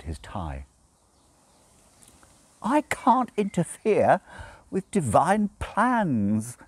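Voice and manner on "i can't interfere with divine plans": croaked. A narrator's reading. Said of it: "he croaked".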